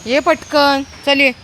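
loud, high hurry-up call. Real, not acted. Feeder hurrying an animal over, calling out.

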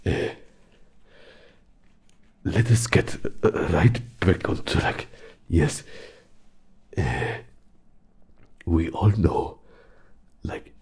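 defiant. Acted. Suspects a trick, pushes back.

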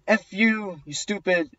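half-hearted high mock shout; retold yelling. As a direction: imitate an angry woman, held back. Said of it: "she yells at me".

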